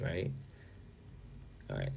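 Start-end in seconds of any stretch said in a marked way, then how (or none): none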